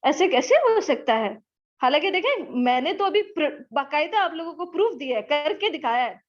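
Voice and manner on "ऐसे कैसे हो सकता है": higher, whining student objection; student mockingly protesting to the teacher; mock student complaint. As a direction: play the doubting student. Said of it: "फिर हम कहते हैं".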